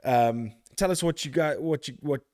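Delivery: talking while catching breath; winded, just ran back in. Real, not acted. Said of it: "I'm out of breath 'cause I ran".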